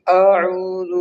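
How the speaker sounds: "اعوذ" with the opening a drawn out; demonstrating "اعوذ" with an over-long first syllable; wrongly stretched hamza. Shown as a demonstration. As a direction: drag the first vowel of "اعوذ" too long, as a mistake. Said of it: "بہت سارے لوگ اس کو کھینچتے بھی ہیں".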